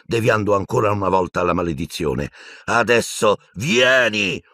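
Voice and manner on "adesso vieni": high, drawn-out summons; yelled order. A narrator's reading. Piton to the blond Death Eater, yelling. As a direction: stretch the command into a high call. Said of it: "urlò al mangiamorte biondo".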